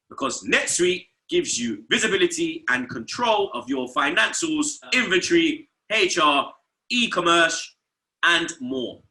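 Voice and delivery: steady sponsor ad read. Acted. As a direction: sell it like a host-read ad. Reads sponsor ad.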